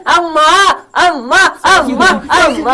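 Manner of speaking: whiny crying plea. Acted. Son pleads after eviction.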